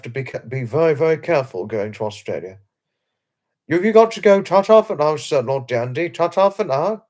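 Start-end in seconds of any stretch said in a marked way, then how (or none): 3.7-7.0 cheery goodbye. Real, not acted. Cheery farewell to a viewer.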